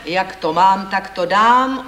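loud, unmoved haggler's retort; cold retort. A narrator's reading. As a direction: state the price firmly, without sympathy. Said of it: "odvětil zdrápanec chladně".

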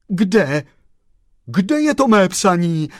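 the chauffeur demands his lost letter, urgent call; urgent exclamation. A narrator's reading. Frantík asks the postman for his letter, urgent call. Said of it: "zvolal pan šofér Frantík".

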